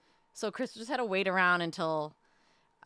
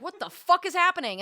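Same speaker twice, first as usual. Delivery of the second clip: much higher and louder retold shock; shocked disbelief; 9 semitones higher, 5 dB louder than usual. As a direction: blurt it out stunned.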